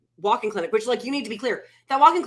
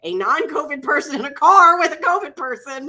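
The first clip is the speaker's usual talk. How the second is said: higher and louder, fast indignant protest; insistent outburst; 8 semitones higher, 6 dB louder than usual. Retold or imitated. Sick wife refusing to put husband in the car, loud indignant protest. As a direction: refuse him, voice rising hard.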